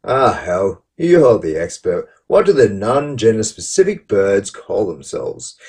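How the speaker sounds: theatrical mock-earnest reading with big pitch swings; lightly hammed-up sarcastic contrition; cheeky sarcastic tone. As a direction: read it with cheeky, exaggerated sincerity. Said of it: "I'll put a twist on it".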